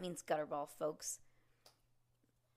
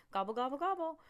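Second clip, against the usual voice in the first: high, loud gobbling like a turkey; turkey gobble; 7 semitones higher, 7 dB louder, faster than usual. Acted. Turkey dance imitation.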